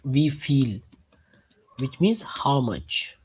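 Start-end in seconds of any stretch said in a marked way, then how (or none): 1.8-3.2 whispered. Real, not acted. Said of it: "teacher explaining words".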